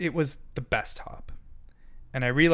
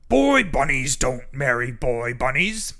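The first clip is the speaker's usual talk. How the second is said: louder, strange pompous bug voice; the stink bug scolds the two bunnies, pompous; stink bug's scary voice; 6 dB louder than usual. A narrator's reading. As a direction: lay down the rule like a bossy bug. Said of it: "the scary voice".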